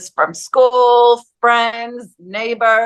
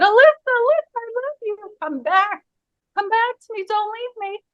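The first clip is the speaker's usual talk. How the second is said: screaming mother; 12 semitones higher, faster than usual. Retold or imitated. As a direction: imitate a mother's desperate plea without full volume. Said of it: "see my mother again screaming".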